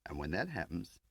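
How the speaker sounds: brash, grinning field man; cocky agent Tar. Acted. Tar addresses all three.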